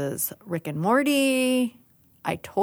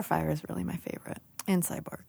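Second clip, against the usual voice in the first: whispering; 9 dB quieter, faster than usual. Real, not acted. Whispered aside.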